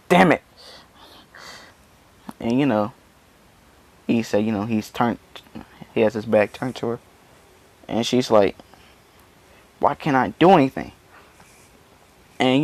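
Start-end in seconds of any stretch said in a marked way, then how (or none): 0.1-0.4 higher, louder outburst of frustration; acted frustrated curse. Beaten fighter curses on the ground. 9.8-10.9 higher-pitched exasperated question; acted frustration. Beaten fighter despairs at her failure.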